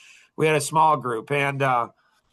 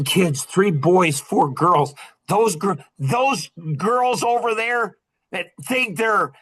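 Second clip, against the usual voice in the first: retold insistence. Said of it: "Oh, was I mad".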